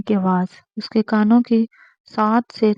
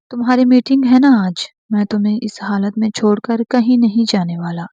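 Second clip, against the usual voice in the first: firm declaration; 3 dB louder than usual. Acted. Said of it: "اس نے قطعی انداز میں اعلان کیا".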